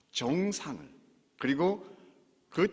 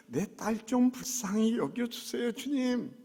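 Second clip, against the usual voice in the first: mother's plea demo; 8 semitones higher than usual. Shown as a demonstration. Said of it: "이래야 돼".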